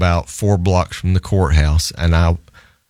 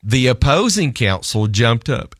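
usual speaking voice

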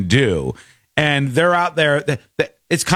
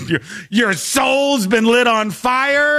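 mock disbelief; 7 semitones higher, slower than usual. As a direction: repeat it slowly like you can't believe it. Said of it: "The C B S News guy is like".

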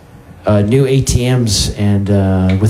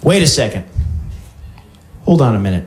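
lightly voiced confused player, higher; a hint of a proud clueless player; clueless Scrabble player; 9 semitones higher than usual. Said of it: "person who doesn't understand the rules of Scrabble".

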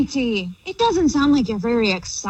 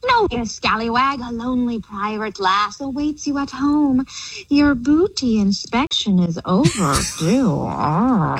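pirate voice. Pretend. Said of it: "the theme of talking like a pirate".

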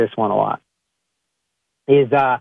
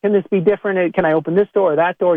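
higher, pleading bargainer; mock pleading, pitched up; 5 semitones higher than usual. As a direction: beg the locked car door, half-mocking. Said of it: "And you're like".

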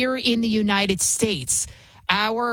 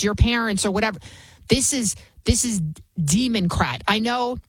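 ordinary talk

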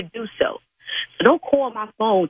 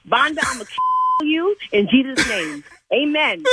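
laughing mock threat; 5 semitones higher than usual. Real, not acted.

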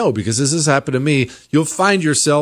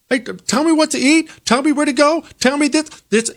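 a pleading voice, pitched higher; lightly voiced freed slave; 13 semitones higher than usual. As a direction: act out someone begging to be told what to do, lightly. Voicing freed slaves asking orders.

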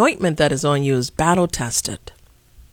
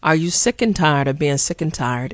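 lightly voiced Fannie Lou Hamer, close to own voice; a hint of the civil rights elder's weary call; channeling Fannie Lou Hamer, barely shifted. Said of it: "in my Fannie Lou Hamer voice".

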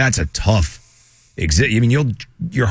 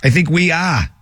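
light put-on Boston accent; 2 semitones higher than usual. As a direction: drop the R, mock Boston style. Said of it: "put on my Boston accent".

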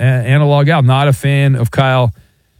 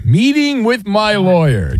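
mocking echo; 4 semitones higher, slower than usual. Host mocks caller's lawyer line.

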